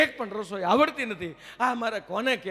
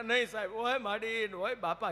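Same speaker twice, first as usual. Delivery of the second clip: mock wailing; 8 dB quieter than usual. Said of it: "એવો રડે".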